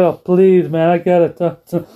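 hammed-up silly pleading; silly Eddie. Eddie acting silly at the gate, mock pleading. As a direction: beg like a goofy clown. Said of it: "he starts acting all silly".

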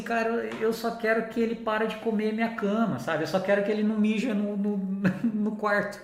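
comically exasperated plea, held high; mock pleading. New puppy owner asking online for help, mock pleading. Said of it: "eu falei assim".

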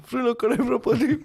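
high-pitched mock panic cry; laughing, hammed-up alarm; imitated panic. Quoting a viral co-driver's panic.

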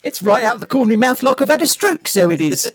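Dick Van Dyke cockney. Pretend. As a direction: play a Mary Poppins chimney sweep in a cockney accent. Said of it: "I can't do this for very long".

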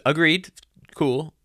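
a hint of a dumb gym bro; dumb imitation voice. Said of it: "that dumb imitation voice I just did".

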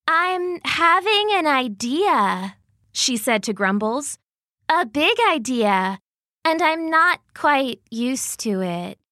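a hint of a slow bear marvelling at her idea; Goldie the bear.

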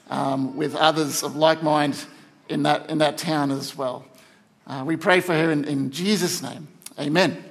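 measured, sincere prayer over a church member; public prayer. Real, not acted. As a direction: pray gently for someone, pausing between requests. Leads a prayer for Kate.

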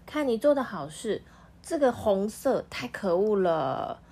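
a touch of angry neighbours. Acted. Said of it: "他们很生气的跟魔术师说".

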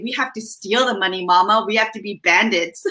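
mock child voice. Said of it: "I thought he might say".

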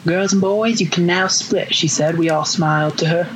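Gone with the Wind Southern voice, lightly done; Southern accent. Pretend. Reader auditioning for the hosts, a modest Gone with the Wind Southern accent. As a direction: read the story in an old-film Southern accent. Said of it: "Gone with the Wind voice you got going".

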